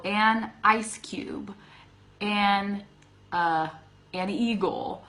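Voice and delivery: slow, careful example words; slow demo. Shown as a demonstration. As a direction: spell out the example slowly. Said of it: "in front of a word that starts with a vowel".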